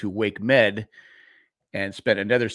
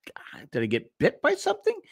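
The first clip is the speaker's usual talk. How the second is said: alarmed quote; 6 semitones higher, 4 dB quieter than usual. Retold or imitated. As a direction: pitch jumps higher in half-mocking alarm. Retells waking with burning pain.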